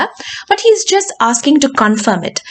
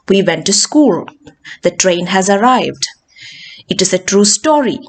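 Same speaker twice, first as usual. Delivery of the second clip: "school", "arrived" and "story" each falling; falling statements; 2 semitones lower than usual. Shown as a demonstration. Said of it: "it will have a falling tone".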